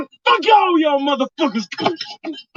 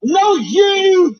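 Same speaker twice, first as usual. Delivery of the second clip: yelling at Bobby; much slower than usual. Acted. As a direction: point the finger and yell. Comedy sketch shouting Bobby.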